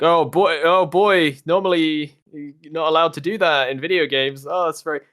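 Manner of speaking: lightly voiced chatty gun; talking gun. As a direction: gush like an overeager toy. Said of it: "your gun's like".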